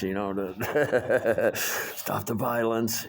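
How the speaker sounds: slow, put-on preachy voice; mocking bosses. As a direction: parody the bosses' lecture. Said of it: "the bosses all are like".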